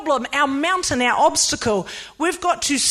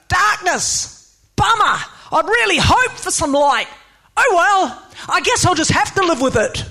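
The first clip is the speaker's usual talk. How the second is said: higher-pitched hammed-up disappointment; mock resignation; 4 semitones higher than usual. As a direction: pretend to give up, comically let down. Mock God giving up at darkness.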